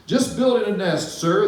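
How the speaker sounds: perky bird brushing off the moose; cheeky bird. Acted. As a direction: toss it off like a cheeky little bird. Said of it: "the zinazoo said".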